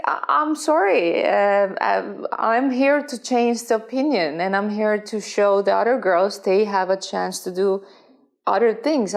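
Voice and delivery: half-mocking apology that turns defiant; retold defiant reply. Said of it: "So I was like".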